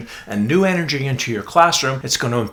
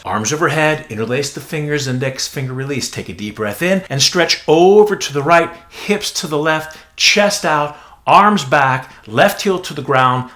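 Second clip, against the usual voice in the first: louder, clipped commanding yoga cues; teacher voice; 3 semitones higher, 5 dB louder than usual. Shown as a demonstration. Yoga teacher demoing the cueing voice to trainees, loud and commanding. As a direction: call the cues like a drill instructor. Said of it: "That's my teacher voice".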